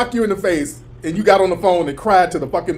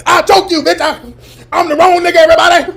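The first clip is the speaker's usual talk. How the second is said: high, loud mock yell; a hammed-up angry woman; high, louder mock threat; imitating the woman; 8 semitones higher, 5 dB louder than usual. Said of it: "Woman, you all".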